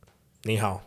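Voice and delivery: 你好 said in Mandarin, nǐ hǎo; Mandarin greeting. Shown as a demonstration. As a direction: say 你好 with Mandarin tones. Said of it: "And then there's".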